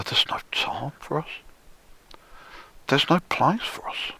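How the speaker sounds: imitating a feeble, whispered croon; wimpy whisper. Mocking a musician's wimpy singing, whispered. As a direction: shrink the lyric into a weak little whisper. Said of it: "trying to squeak out this".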